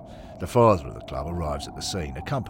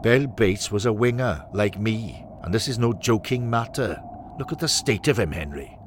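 raised, mildly indignant Welsh voice; indignant rebuke; 4 semitones higher, 4 dB louder than usual. Acted. Welshman rebukes Henry for joking, indignant. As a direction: tell him off for joking.

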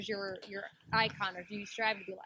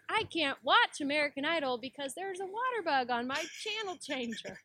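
Kenneth; 6 semitones higher than usual. Retold or imitated. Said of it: "he takes a stab at it".

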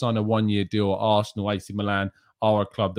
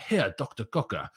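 badly attempted German accent; hammed-up, not very convincing German accent; 4 dB quieter than usual. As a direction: put on a clumsy German accent for the name. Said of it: "that was my worst German accent".

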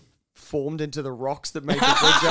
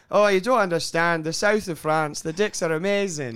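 a mild mock French accent, a touch louder; lightly imitating her French accent; 3 dB louder than usual. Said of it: "I could not get hard with that accent".

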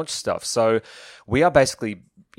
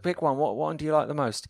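lightly done impression, higher pitch; a mediocre imitation of a mate, voice lifted; Matt Lucas; 4 semitones higher than usual. Author retelling his mate offering cover quotes, lightly imitated higher voice. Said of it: "I'm sorry about that impression".

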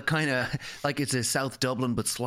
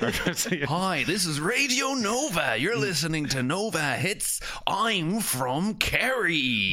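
swooping, drawn-out station ident; radio DJ parody; 2 semitones higher, much slower than usual. Retold or imitated. DJ introducing Radio Nova, exaggerated radio voice. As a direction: stretch it like a hammed-up DJ.

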